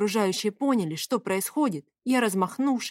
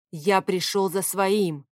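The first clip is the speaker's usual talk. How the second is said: slow, forceful bark; slower than usual. Acted. Favius barks at the woman that he came for what is his. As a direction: bark the claim, stressing "я". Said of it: "рявкнул он".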